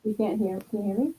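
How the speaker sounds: underwater. Real, not acted. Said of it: "You kinda sound like you're underwater".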